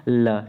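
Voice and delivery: ल held slowly with the tongue at the gums; teacher slowly sounding ल; sound demo. Shown as a demonstration. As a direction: say ल long and clear. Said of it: "जैसे ल".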